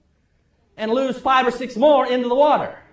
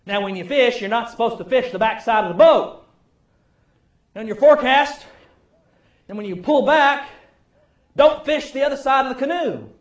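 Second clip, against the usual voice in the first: granddad giving directions; 3 semitones higher, 5 dB louder than usual. Retold or imitated. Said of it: "he'd give me directions".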